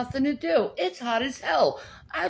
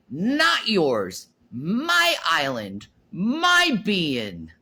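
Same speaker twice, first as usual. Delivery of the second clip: slow, lower, with a sob; crying; 5 semitones lower, much slower than usual. Real, not acted. Defending her island against trolls, near tears. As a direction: let the voice break on it.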